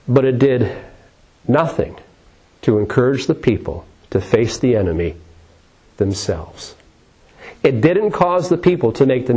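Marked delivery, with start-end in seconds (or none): none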